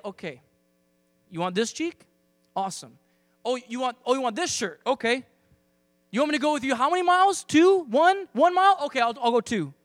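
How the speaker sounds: rising to loud, fast, high cheerful overgiving; mock eager yes. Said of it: "Flip it around and say".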